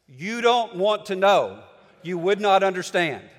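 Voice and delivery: a mock stern parent warning; firm brush-off. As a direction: shut the question down flatly. Wife cutting off child's question.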